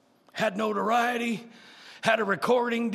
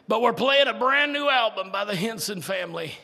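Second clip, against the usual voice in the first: louder, punchy DJ announcement; radio announcer; 4 dB louder than usual. Retold or imitated. Gospel station announcing the new album, hint of announcer. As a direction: sell it like the radio man. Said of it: "and they said".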